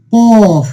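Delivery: কফ with a full, heavy opening consonant; heavy letter name. Shown as a demonstration. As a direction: say কফ long and heavy, falling at the end. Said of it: "একটু উঁচু মোটা করে পড়তে হবে".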